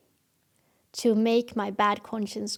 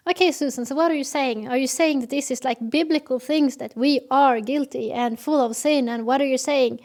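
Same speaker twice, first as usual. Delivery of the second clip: challenging listener; 2 semitones higher, 5 dB louder than usual. Acted. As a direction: act a skeptic demanding she explain herself. Voicing an imagined challenger.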